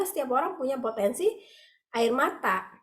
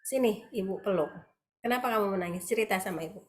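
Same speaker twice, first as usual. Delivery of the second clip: softer, gentle and tender; comforting mother; 2 semitones lower, 4 dB quieter than usual. Retold or imitated. Mother hugs crying son, soft soothing voice. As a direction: soothe a crying child in a hug. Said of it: "akan dipeluk".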